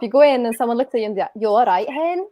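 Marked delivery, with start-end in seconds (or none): 1.3-2.3 put-on light Scottish accent, "hen" rising; Scottish shopkeeper to a customer; Scottish shop greeting. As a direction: imitate a Glasgow shop assistant in Scottish. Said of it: "the one you hear in every shop".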